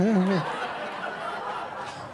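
laughing yeah. Retold or imitated. Giggling at his own lie.

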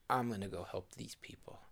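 whispered resolve; whispered to himself. Acted. Hanukkah Harry deciding to help, whispered to himself. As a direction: whisper the plan to yourself.

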